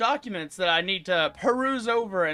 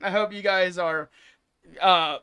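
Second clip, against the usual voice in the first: halting, stumbling over words; stuttering; 3 dB louder than usual. Real, not acted. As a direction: trip over the start of each phrase. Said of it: "I'm stuttering a little bit".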